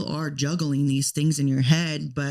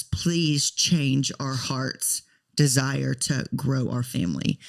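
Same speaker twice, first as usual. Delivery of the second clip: pleading prayer. Retold or imitated. Retold tearful prayer in garage.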